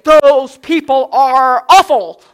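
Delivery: slow, loud, scornful verdict; disgusted lifeguard. Retold or imitated. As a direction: drag it out with loud contempt. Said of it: "He said".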